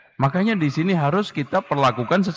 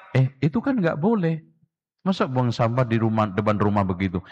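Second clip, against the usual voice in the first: gentle correction; 3 semitones lower than usual. Shown as a demonstration. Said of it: "Ini namanya umpan balik korektif".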